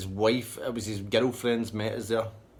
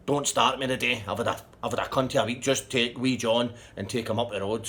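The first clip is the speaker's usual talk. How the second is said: louder, higher retold telling-off; acted exasperated anger; 3 semitones higher, 5 dB louder than usual. Man refuses his partner a lift, fed up and angry. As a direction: lay down the law, louder.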